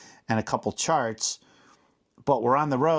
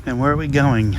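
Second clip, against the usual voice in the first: calling out; 6 dB louder than usual. Real, not acted. Calling out in a noisy place.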